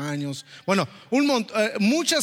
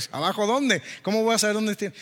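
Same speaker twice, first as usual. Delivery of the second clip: higher-pitched, indignant retold challenge; mildly confrontational; 4 semitones higher than usual. Retold husband challenging the border officer, mildly confrontational. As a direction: push back, a touch feisty. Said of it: "me quise poner medio, le decimos nosotros flamenco".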